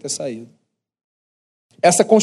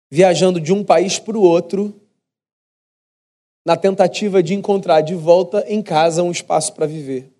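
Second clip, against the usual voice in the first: ordinary delivery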